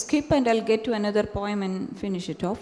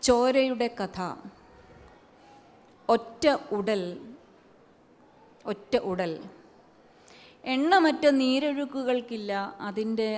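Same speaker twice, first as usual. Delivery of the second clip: poetry recital; much faster than usual. Acted. Poet reciting her poem to an audience, measured recital. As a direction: let each image land before moving on.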